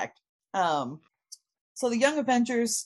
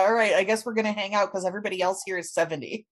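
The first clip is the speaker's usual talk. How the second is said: resigned quick aside; 4 dB louder, much faster than usual. Retold or imitated. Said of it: "You're like".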